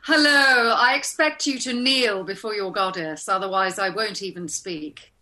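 haughty goddess demanding to be knelt to; regal, imperious goddess voice; commanding warrior goddess. Acted. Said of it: "Miss Hathor".

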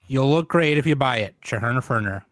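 smooth commercial voice; fake ad read. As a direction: sell it like a radio ad. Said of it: "another word from our sponsors".

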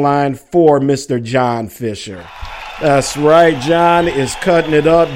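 lightly hammed hype man. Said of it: "let me get my D J voice here".

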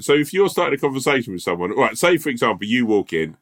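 slightly nasal storytelling voice. Real, not acted. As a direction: let the voice go nasal. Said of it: "your voice has gone all fucking nasally".

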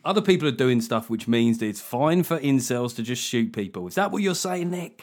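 mock tabloid accusation; mock tabloid accuser. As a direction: hammer him like a tabloid interviewer. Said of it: "this is how the tabloids would run it".

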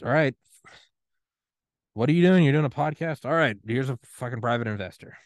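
the universe, high and loud, fed up; exasperated universe. Pretend. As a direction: sigh it out like a cosmos losing patience.

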